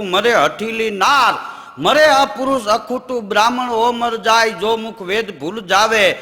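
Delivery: chanted doha, slow and ringing; poem recital. Acted. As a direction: declaim the couplet slowly like a folk poet. Recites Betal's couplet.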